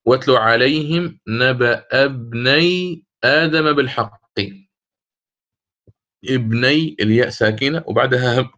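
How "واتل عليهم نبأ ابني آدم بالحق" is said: slow chanted verse; Quranic recitation. Shown as a demonstration. Teacher reciting the example verse slowly. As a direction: recite the verse in tajweed style. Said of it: "أو".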